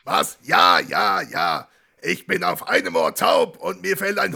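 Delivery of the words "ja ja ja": shout. Acted. Schreit ins Telefon.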